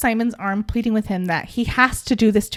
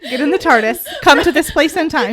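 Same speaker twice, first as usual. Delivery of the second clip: hammed-up Doctor Who; 3 semitones higher, 5 dB louder than usual. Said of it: "Doctor Who style delivery".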